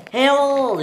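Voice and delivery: high, loud, drawn-out call; shouting. Acted. Stephen rushing in to Harold, shouting. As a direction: yell the name urgently. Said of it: "he shouted".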